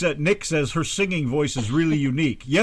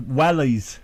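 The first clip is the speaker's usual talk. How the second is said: wellies with a British accent. Shown as a demonstration. Showing a friend the British way, accented. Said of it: "put a little bit of accent there".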